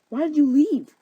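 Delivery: high, loud, hurt outcry; upset demand. Acted. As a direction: wail it as the abandoned lover. Hermia confronts Lysander.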